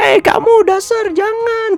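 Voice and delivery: high, slow, angry scolding tone. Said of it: "marah-marah ya".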